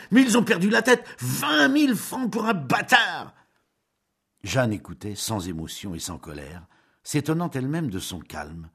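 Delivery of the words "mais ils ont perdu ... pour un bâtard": furious outburst. Acted. Julien's tirade climax.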